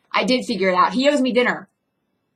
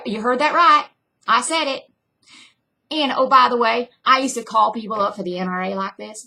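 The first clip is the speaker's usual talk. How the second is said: Southern accent. Shown as a demonstration. Actor sounding off about Texas and the NRA, in put-on Southern accent. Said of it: "Better Southern".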